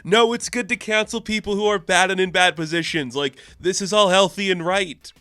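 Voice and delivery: high, mock-alarmed villain preaching; Loki. Loki warning everyone about corporations, hammed-up high-pitched pleading. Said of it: "this bad guy who's like".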